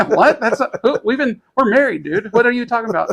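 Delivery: high, incredulous mock protest; hammed-up outraged girlfriend voice; indignant girlfriend. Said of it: "And she's like".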